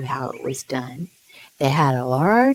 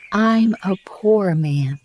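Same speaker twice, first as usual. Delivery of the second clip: pleading; 5 semitones higher, slower than usual. Acted. Hatter pleads to king.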